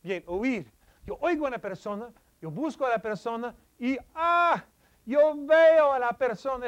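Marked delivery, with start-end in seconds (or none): 4.1-6.7 mock surprise. Shown as a demonstration. Acts out spotting a person.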